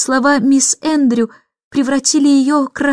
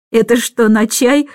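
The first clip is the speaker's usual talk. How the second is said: sarcastic. Acted. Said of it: "саркастически спросил он".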